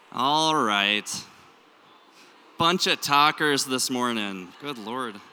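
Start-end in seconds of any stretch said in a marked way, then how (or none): 2.6-4.5 everyday Minnesota accent, loud; natural Minnesota vowels, projected to the room. Real, not acted. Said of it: "My Minnesota accent really starts coming out".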